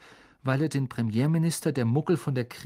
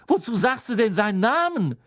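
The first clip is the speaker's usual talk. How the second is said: higher, louder frightened rebuke; shocked scolding; 8 semitones higher, 6 dB louder than usual. Acted. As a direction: scold him, still rattled.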